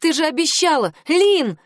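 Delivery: high, cracking shout; a voice that breaks on the name; cry out. A narrator's reading. Girl crying out to her friend, voice cracking. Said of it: "выкрикнула я, голос сорвался".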